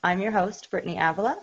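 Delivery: hoarse after a night of talking; rough, worn-out voice; raspy voice. Real, not acted. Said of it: "sorry for my raspy voice".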